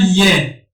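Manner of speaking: یه sounded out for learners as "ye"; syllable pronunciation demo. Shown as a demonstration. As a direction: say یه as "ye", y gliding into e.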